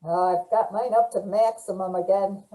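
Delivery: muffled headset mic. Real, not acted. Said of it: "Pam, you're very hard to hear".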